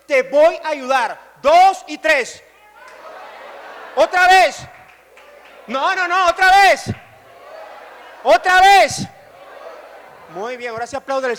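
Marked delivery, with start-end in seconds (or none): 0.1-2.4 loud, slow stadium call; stadium shout. Shown as a demonstration. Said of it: "se va a colocar en pie y usted va a decirle". 4.0-9.0 loud call for another round; loud urging. Real, not acted. Urging the crowd to shout louder.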